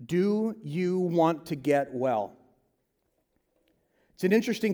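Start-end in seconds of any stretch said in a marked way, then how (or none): 0.0-2.4 slow, soft, caring question; gentle question. Retold or imitated. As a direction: ask it slowly and tenderly, like Jesus to the broken man. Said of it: "he asks him a question".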